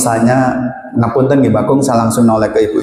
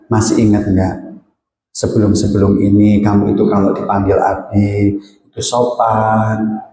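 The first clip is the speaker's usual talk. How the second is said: tender mother; 3 semitones lower than usual. Acted. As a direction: soothe the child like a loving mum. Mother comforting naughty child demo. (ibu yang lembut menenangkan anaknya)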